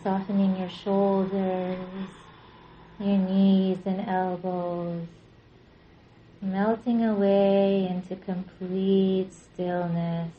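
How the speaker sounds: calm, unhurried meditation guidance with long pauses; measured relaxation-class voice, leaving space between phrases; guided yoga nidra. Real, not acted. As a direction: guide them gently into rest, drawing out phrase endings. Leads yoga nidra practice.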